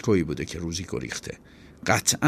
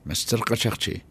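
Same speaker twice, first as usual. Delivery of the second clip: mocking; 3 semitones higher than usual. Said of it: "با لحنی گفت که مسخره کردن".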